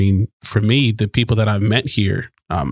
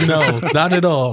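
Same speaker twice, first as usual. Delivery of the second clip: laughing; 6 semitones higher than usual. Real, not acted. Laughing along at the joke.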